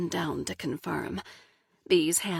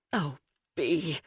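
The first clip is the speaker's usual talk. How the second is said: put-on crying like a baby; 3 semitones lower than usual. A narrator's reading. Husband clinging to his wife, weepy and crying. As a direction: let it come out as a weepy cry. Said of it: "crying like a baby now".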